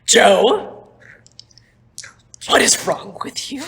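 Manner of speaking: high, loud, frantic ranting; exasperated rant. Acted. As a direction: rant at him, losing patience. Davin rants at Joe.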